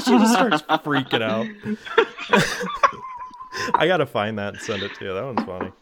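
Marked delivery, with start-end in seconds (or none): 0.0-3.7 high, loud, through laughter; laughing. Real, not acted. Friend retelling a wrestling prank call, cracking up loudly. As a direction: crack up while telling the punchline.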